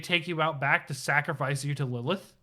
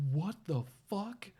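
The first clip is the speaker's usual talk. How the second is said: a startled, hushed what-the-fuck, pitched up; shocked reaction; 6 semitones higher, 5 dB quieter than usual. Retold or imitated. Reacting to the game story, shocked and pitched up. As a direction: gasp it out in disbelief. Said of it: "and I was like".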